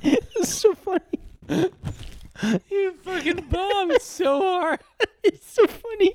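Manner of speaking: high squeaky helium voice, laughing; helium-pitched giggly talk. Real, not acted. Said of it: "the helium voice".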